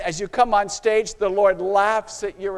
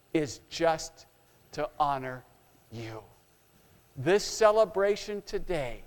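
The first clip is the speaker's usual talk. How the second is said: choked with tears; 5 semitones lower, 4 dB quieter than usual. Acted. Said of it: "with tears of joy, Jesus chokes out the words".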